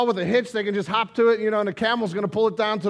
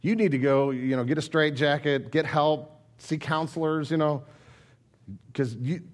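scoffing neighbor; 7 semitones lower, 5 dB quieter than usual. Pretend. Neighbor mocking Noah.

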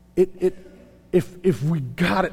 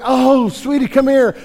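put-on higher, louder, melting at the toddler; doting parent; 6 semitones higher, 6 dB louder than usual. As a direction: call the little one over adoringly. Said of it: "and you're like".

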